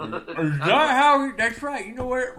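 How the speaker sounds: high, loud caricature of a politician; Mitch McConnell. Acted. Host answering whether it was an impression, high caricature. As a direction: push the put-on voice up high. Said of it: "an impression of Mitch McConnell".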